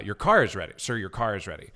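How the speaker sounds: stiff, formal car-is-ready line; formal restrained butler. Retold or imitated. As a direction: deliver it like a wooden butler. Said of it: "He was just very stiff at first".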